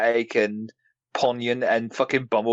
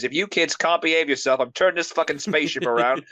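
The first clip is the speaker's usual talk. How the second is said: mock exasperated parent scolding; lightly voiced fed-up parent; Elita One; 4 semitones higher than usual. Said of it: "Elita One goes".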